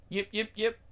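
high little-dog yaps; yapping dog. Acted. The Shih Tzu yaps at the men. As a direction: yap like a tiny lapdog.

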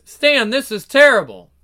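dismayed. Acted. Wife dismayed.

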